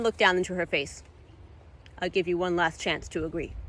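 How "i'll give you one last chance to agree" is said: a quiet final warning; quiet menace. Acted. Dathar's threat.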